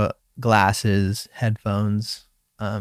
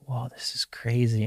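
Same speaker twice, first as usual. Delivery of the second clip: whisper; 6 dB quieter than usual. Retold or imitated. Retold wonder while paddling.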